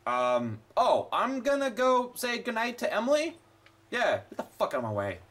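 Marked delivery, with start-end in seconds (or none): 3.9-5.2 low grumbled get the fuck out of my way; low mutter. Real, not acted. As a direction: mutter it under your breath, annoyed. Shoving past NPCs in game.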